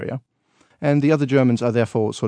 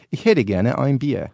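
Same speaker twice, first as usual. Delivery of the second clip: German; slower than usual. Shown as a demonstration. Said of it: "Say that again".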